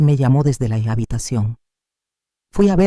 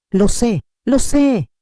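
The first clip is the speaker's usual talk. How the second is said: a cracking cry that climbs high; broken cry; 8 semitones higher, 3 dB louder, slower than usual. A narrator's reading. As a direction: lo sé rising to a desperate high break. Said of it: "explotó en un grito quebrado".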